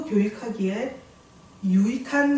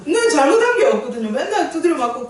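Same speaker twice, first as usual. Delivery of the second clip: louder, higher self-justifying complaint at the start; mock indignant protest; 5 semitones higher, 5 dB louder than usual. Preacher mimicking her former unrepentant self, mock indignant. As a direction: play up the aggrieved innocence.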